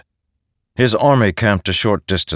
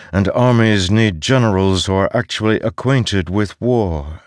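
disembodied voice; 4 semitones higher than usual. Acted. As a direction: talk down to him, contemptuous. The voice keeps lecturing.

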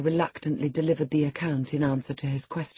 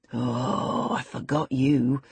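roaring tyrant king; 2 semitones lower, much slower than usual. Acted. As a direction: sneer it slowly. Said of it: "said the tyrant".

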